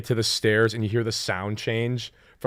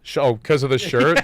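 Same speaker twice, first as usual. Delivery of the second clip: whispered reply; 3 semitones higher, 8 dB louder than usual. Real, not acted.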